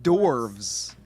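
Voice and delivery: Dwarves said "dorvz"; silent-W dwarves. Shown as a demonstration. Friend insisting on his version, Dwarves as dorvz. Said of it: "Like, like hors d'oeuvres".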